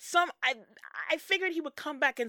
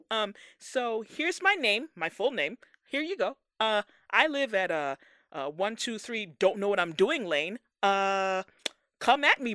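mock Green Ranger; 2 semitones higher, 5 dB louder than usual. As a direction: ham up a clueless new hero at a mic. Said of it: "Press conference".

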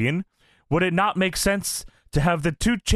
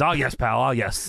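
Rock voice; 5 semitones lower than usual. Retold or imitated. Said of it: "Why do you say it like that?".

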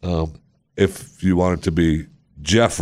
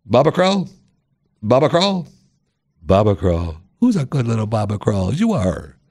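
put-on baby talk; 2 semitones higher than usual. Host cooing at a fan's funny name, baby talk. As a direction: coo the name like to a puppy.

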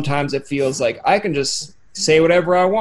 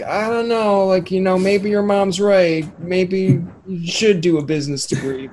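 high, slow mock-worried friend voice; a hinted-at nervous buddy doubting you; mock doubtful buddy; 5 semitones higher than usual. A buddy worrying you should pick business, lightly voiced.

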